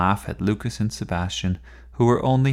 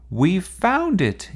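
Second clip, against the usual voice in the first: higher, louder, slow triumphant call; yelled; 11 semitones higher, 5 dB louder, slower than usual. A narrator's reading. Tessa telling the boys she found the clue, slow yell. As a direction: announce the find across the house. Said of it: "yelled Tessa".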